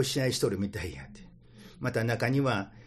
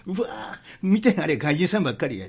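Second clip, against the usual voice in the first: Kansai auntie; 5 semitones higher, 3 dB louder than usual. Retold or imitated. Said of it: "関西のおばちゃんが".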